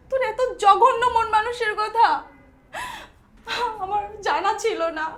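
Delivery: tearful, hurt reproach; crying. Acted. Sister learning of brother's vile mind, crying. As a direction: break into tears while reproaching him. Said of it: "তুমি এভাবে কান্না করবা না".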